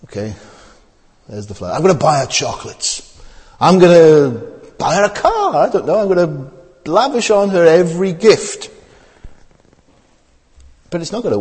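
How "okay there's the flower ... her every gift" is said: eager suitor. Retold or imitated. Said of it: "You say".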